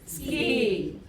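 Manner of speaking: 스키 slow with a tense 끼. Shown as a demonstration. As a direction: stretch 스키 like 스끼. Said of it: "경음 세게 발음이 들어갑니다". (천천히 스끼)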